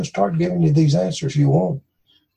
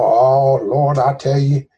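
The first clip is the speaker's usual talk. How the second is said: mock pulpit prayer; slower than usual. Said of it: "in an everyday tone".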